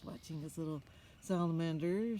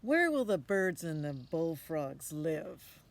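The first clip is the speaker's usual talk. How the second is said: questioning mother; 8 dB louder, slower than usual. Acted. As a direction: press him like a doubtful mom. Mother asks.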